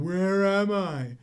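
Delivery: hammed-up imitation of a lost, crazed man staring in the mirror; panicked madman. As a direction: stretch the question out, rising to a loud high wail. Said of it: "just saying".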